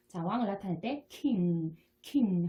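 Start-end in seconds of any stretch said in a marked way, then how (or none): 1.1-1.8 "king" slowly, ending in a nasal ng; "king" with a Korean 이응 final. Shown as a demonstration. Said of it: "콧소리를 살짝 넣어서 이응 발음". 2.0-2.5 "king" slowly, ending in a nasal ng; "king" with a Korean 이응 final. Shown as a demonstration. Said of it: "콧소리를 살짝 넣어서".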